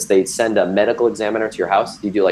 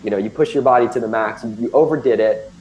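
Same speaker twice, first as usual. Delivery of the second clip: a mild mock scolding from a scared wife; imitating her upset telling-off, a little raised; half-hearted retold scolding; mad wife; 3 semitones higher than usual. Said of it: "she's mad at me".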